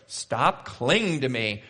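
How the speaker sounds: slow, comic plea to let go; humorous protest. Acted. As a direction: play the protest for gentle humor. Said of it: "kind of humorous".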